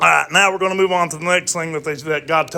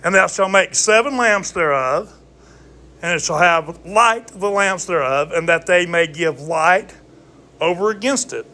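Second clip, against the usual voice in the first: scripture reading; 2 semitones higher than usual. Acted. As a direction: read the verse like scripture. Reads scripture aloud.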